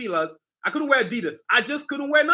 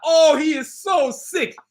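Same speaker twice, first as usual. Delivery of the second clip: louder, higher, drawn-out mock fan rave; imitated fan amazement; 6 semitones higher, 5 dB louder, much slower than usual. Creator imitating readers of his comic book, amazed. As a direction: gush slowly and loudly like an awed reader. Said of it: "you're gonna be like".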